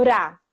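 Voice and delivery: "Ra" with a quick tongue-tip tap; tapped R. Shown as a demonstration. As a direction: flick the R once in "Ra". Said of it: "e o tep, o vibrante".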